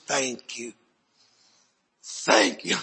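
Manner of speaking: low, soft, voice giving out; imitating tearful thanks. Mother thanking him for her boy, imitated tearful hush. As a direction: play a crying mother's hushed thanks. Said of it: "she starts crying".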